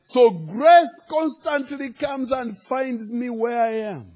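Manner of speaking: high, drawn-out declarations with punched key words; preaching. Real, not acted. Preacher to congregation on where grace found us, preaching. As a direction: preach it out with conviction.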